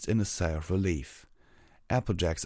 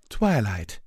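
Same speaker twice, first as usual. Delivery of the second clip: relieved; 3 semitones higher, 5 dB louder than usual. Acted. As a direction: say her name with relief. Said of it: "she said in relief".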